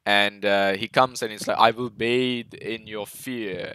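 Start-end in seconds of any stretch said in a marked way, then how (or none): 1.6-3.7 slow, drawn-out imitation of a villain; mildly menacing, each word stretched out slowly; imitated menace. Film fan quoting Steppenwolf's threat, slow imitated menace. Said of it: "so freaking menacing".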